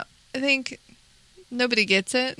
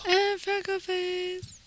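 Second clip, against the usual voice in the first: whispered, slow, higher; mock whisper; 7 semitones higher, 7 dB quieter, slower than usual. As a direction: breathe the name in a playful whisper. Echoes the niece line in whisper.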